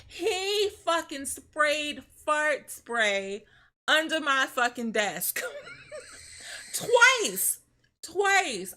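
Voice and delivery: shrieking laugh, then a high, loud Twice; cracking up while stressing the outrage. Real, not acted. To the stream, outraged at the fart-spray prank while laughing.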